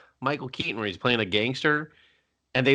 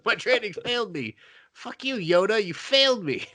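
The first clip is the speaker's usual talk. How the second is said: mock despair; 9 semitones higher than usual. The speaker lamenting Yoda.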